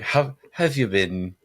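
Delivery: imitating English accent. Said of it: "What do they say in England?".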